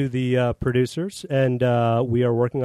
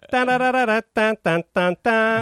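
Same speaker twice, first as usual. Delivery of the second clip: mock puppet babble; 7 semitones higher than usual. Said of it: "he's gonna go".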